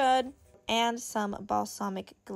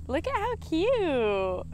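high, drawn-out gush; squealing with delight; excited reveal; 7 semitones higher, 5 dB louder, slower than usual. Real, not acted. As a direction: gush loudly over something adorable. Reveals her finished crochet piece.

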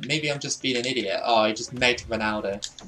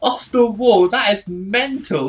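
excited raving; 9 semitones higher, 7 dB louder than usual. Real, not acted. Gamer raving about an off-the-wall goal, hyped yelling. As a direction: lose it over a crazy goal.

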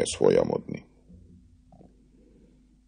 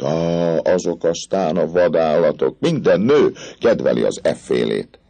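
higher, swaggering captain showing off the parade; boastful captain; 5 semitones higher, 3 dB louder than usual. Acted. Captain boasting to the girl, swaggering. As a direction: brag like a dashing officer.

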